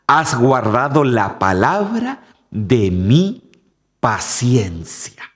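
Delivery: slow down to land on "de mi paciencia"; slow stressed addition. Shown as a demonstration. Preacher slowly stressing "de mi paciencia" for the congregation. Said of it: "pero aquí agrega algo".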